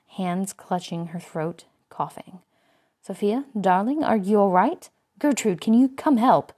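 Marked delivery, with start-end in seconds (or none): 3.0-6.5 higher, louder panicked calling; alarmed call. A narrator's reading. Woman calling Gertrude to help choking Sophia, alarmed.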